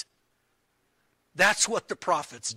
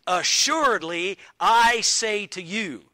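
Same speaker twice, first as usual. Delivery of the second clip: emphatic declaration; 3 semitones higher, 5 dB louder than usual. Retold or imitated. Preacher quoting Jesus to the congregation, emphatic. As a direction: declare it with authority.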